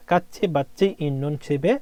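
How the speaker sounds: "কাচ্ছি, বাচ্ছি" said with chhi endings; ch sound. Shown as a demonstration. Teacher reads example sentence to student, ch sound. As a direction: sound out "কাচ্ছি, বাচ্ছি, ইন্নুন, ছিবে" with clear ch. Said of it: "ছর মতো উচ্চারণ হবে".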